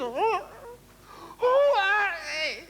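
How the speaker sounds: high, loud mock-frightened girl's cry. Comic telling: scared girl cries out against the hedge. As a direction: squeal it like a scared girl in the dark.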